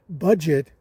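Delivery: "budget" leaned on, weighted and falling; stress on budget. Real, not acted. Hiker stressing budget to viewers, weighted word. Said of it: "I emphasize the word budget".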